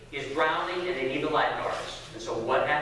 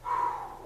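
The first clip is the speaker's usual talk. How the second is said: retold relief; 6 dB quieter than usual. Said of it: "part of you is like".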